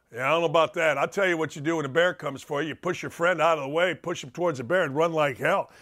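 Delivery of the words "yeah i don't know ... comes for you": ordinary delivery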